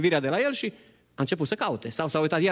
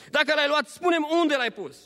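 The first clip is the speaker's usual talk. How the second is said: high, urgent plea; pleading Maria; 11 semitones higher than usual. Acted. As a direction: ask again in distress. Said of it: "a tras concluzie greșită".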